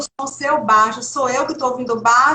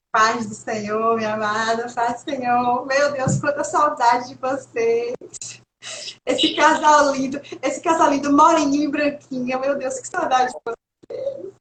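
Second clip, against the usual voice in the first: excited greeting; 2 semitones higher than usual. Real, not acted. Delighted greeting of missed couple.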